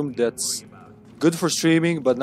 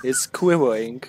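lightly put-on British accent. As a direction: play up a British greeting a little. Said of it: "I am British, obviously".

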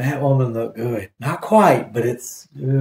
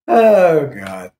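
laughing; 3 semitones higher than usual. Real, not acted. Laughing at how bad it is.

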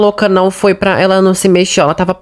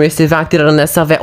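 ordinary delivery

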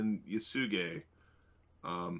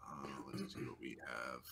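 whispered note to self; whispering; 7 semitones lower, 14 dB quieter than usual. Real, not acted. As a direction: mutter it under your breath. Unvoiced muttering to self.

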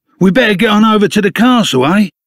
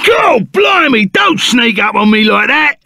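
startled shout; 4 semitones higher than usual. Acted. Startled by someone sneaking up.

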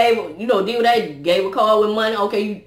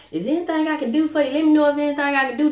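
mock polite visitor; 5 semitones higher, faster than usual. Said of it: "they be like".

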